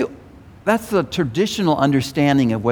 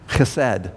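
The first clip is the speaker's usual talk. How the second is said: "Chesed" as khe-SED, weight on the ending; second-syllable stress; 2 semitones lower than usual. Shown as a demonstration. Teacher repeating the Hebrew word for congregation, "Chesed" stressed on second syllable. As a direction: say "Chesed" with guttural kh and accented SED. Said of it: "accent the second syllable".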